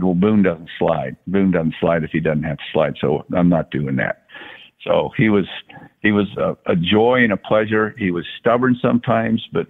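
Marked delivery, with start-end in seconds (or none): 0.0-4.2 Brett Boone. Retold or imitated. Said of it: "he did the same thing. He said".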